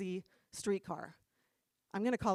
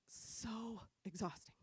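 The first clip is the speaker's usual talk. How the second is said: exasperated emphasis; 10 dB quieter, slower than usual. Real, not acted. Speaker sums up Peter to the crowd, wearily exasperated. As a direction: draw it out slowly, softly weary.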